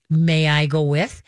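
slow, drawn-out polite request; lightly voiced dog, asking slowly for permission; relaxed dog asking. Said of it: "when you see the dog relaxed".

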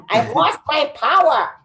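hammed-up superhero despair; mock superhero. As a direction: play a hero losing his powers. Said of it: "Superhero style".

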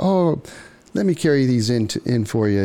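high, insistent friendly voice; pushy charmer. Retold or imitated. Stranger pushes to come inside, high and insistent.

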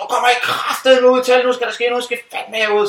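high rough bossy yell; high coarse hostess, bossing the guests. Retold or imitated. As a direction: bark them out to the tent. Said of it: "Det var sådan".

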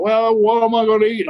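whiny Leon. Retold or imitated. Leon voiced whining about food.

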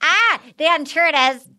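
hammed-up Australian accent. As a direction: put on a playful Aussie accent. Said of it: "wonderful accents like that".

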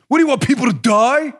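mock-indignant caricature; mocking opponent. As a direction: parody the other side's line. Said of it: "framing this argument as".

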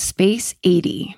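slow breathy whisper. Acted. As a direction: whisper the promo code. Whispered promo code.

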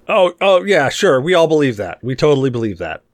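mock-earnest, exaggerated agreement; sarcastic agreement. Real, not acted. Friend teasing a dad about his video game excuse, sarcastic. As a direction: humor them with obvious disbelief.

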